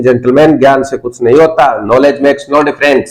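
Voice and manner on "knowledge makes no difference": slow, each word spaced out; slow model sentence. Shown as a demonstration. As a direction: say it slowly for the class. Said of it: "अरे आराम से बोलिए".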